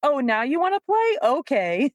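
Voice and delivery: a touch of playful aloofness; teasing trainer. Retold or imitated. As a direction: play hard to get with the dog. Trainer teasing her dog.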